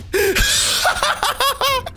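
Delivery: shrieking burst of laughter; high squealing laugh. Real, not acted. Gamer squealing with laughter at the fooled player. Reacting to troll in game.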